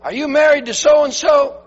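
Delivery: high, loud frantic questioning; acted frantic shouting. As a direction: shout as if searching in darkness. Acted panicked questioning in darkness.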